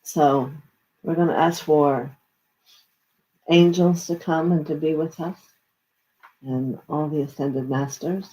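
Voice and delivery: invoke gently, like a prayer; prayerful invocation. Acted. Invocation calling in angels.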